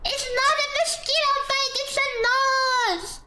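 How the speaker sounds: high, indignant cry; insist, offended and high; outraged protest. Real, not acted. Indignant defending own nose.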